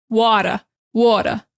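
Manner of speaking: "water" with "uh" ending, no r; New York Boston accent. Shown as a demonstration. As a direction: drop the r in "water": "watuh". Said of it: "They don't say water, they say".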